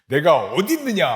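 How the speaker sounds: loud, angry demand. Shown as a demonstration. God demanding angrily where Adam is hiding. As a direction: bark it out like a furious father. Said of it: "화나는 목소리와 표정".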